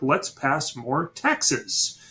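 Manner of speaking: slow, drawn-out mock British official; smug British officials. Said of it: "the British are like".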